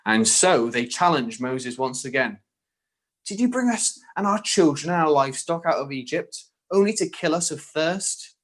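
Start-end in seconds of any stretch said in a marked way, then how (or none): 3.2-8.3 higher-pitched Cockney complaint; Cockney accent. Acted. Thirsty Israelites challenge Moses in the desert, Cockney accent. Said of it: "the Israelites had Cockney accents".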